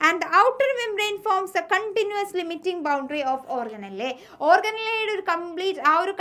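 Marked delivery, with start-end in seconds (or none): 0.1-4.1 slow, deliberate textbook dictation; teacher dictating notes slowly. Shown as a demonstration. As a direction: read it out word by word for notes.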